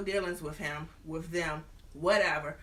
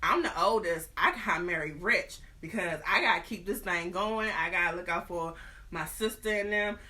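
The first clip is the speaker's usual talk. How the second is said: a hint of a haughty sister, squeaky on the last line; mock snooty sister turning down a writer; lightly voiced older sister. Older sister explaining why she won't marry a writer, lightly mocked. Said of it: "she was like".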